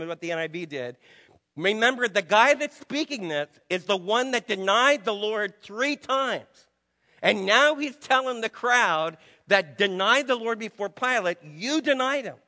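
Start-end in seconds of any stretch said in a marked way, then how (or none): 1.6-12.4 louder, rising preaching push; fervent preaching. Real, not acted. Preacher pressing the congregation, louder fervent build. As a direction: drive the point home. Preaching climax on Peter's denial.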